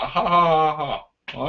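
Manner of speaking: mock laugh, dying away; put-on "ha ha ha"; imitated laughing. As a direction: act out helpless laughter. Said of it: "just start laughing your brain off".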